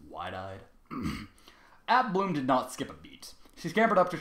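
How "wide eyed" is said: ordinary delivery, nothing marked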